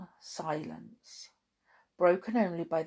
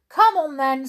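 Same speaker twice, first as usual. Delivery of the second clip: griffin voice; 9 semitones higher, 10 dB louder than usual. A narrator's reading. Griffin urges Alice.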